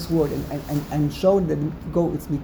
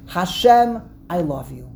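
romantic; 3 dB louder than usual. Shown as a demonstration. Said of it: "very romantic".

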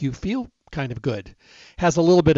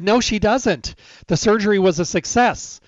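raised, firm and insistent, higher and louder; heated retort; 6 semitones higher, 5 dB louder than usual. Retold or imitated. Son overruling the doctor about his mother's pills, heated and loud. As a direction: push back hard on the doctor. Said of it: "It got very heated".

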